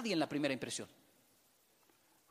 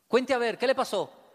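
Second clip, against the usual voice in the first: louder, higher, pressing question; insistent wife; 4 semitones higher, 9 dB louder than usual. Retold or imitated. Wife pressing her husband about what happened, louder and higher. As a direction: demand it like a prying wife. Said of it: "Y ella, mira".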